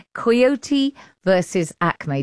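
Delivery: coyote said as KY-OH-tee, British way. Real, not acted. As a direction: say coyote the English way, three syllables. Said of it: "in my English accent".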